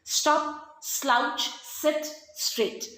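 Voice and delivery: "Stop, slouch, sit, straight" word by word, each opening S set out; repeated S sound. Shown as a demonstration. Teacher showing children the repeated sound, each S word set apart. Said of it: "sir sound is getting repeated".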